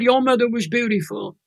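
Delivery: tearful retelling. Real, not acted. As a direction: voice catching on the remembered words. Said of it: "I'm gonna cry now".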